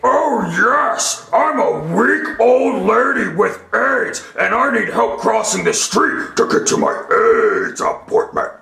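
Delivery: lightly voiced frail old lady, quick; a hint of a weak old woman. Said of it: "Billy here is going to be an old lady".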